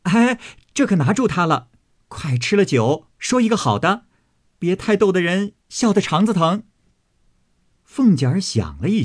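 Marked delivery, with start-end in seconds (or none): 0.0-6.6 higher, laughing, teasing voices; laughing teasing crowd. Acted. Guests laughing as they catch Xifeng, higher teasing voice. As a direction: gleefully catch her out in the game. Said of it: "众人齐笑道".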